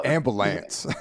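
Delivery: thick Baltimore drawl on "Ambulance"; Baltimore accent. Retold or imitated. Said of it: "he's like".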